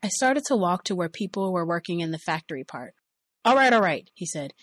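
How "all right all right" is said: louder, higher caving in; exasperated giving in. Retold or imitated. Boss giving in before onlookers, louder exasperation. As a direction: cave in loudly to shut her up.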